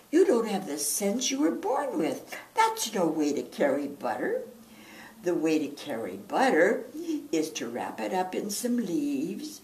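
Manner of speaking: exasperated scolding. Acted. Mama scolding her foolish son, loud and exasperated. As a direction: scold him like a fed-up mama.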